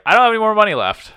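high-pitched, rushed imitation; mock dismay. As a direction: blurt it loudly, imitating a broke friend. Retelling friend running out of money.

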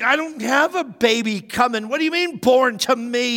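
a hint of a shepherd scratching his head; confused shepherd. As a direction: play a baffled shepherd.

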